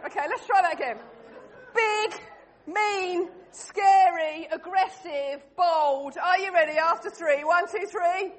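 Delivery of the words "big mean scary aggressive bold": rallying. Shown as a demonstration. Rallying players to be menacing.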